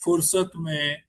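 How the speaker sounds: slow, measured recital with pauses between lines; unhurried Hindi poetry reading; poem recitation. Acted. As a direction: let each line land like a verse at a mushaira. Poet recites his poem.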